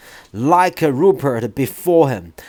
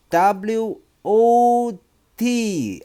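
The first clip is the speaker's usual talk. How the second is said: too quick; 8 semitones higher, much slower than usual. Acted. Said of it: "answering too quickly".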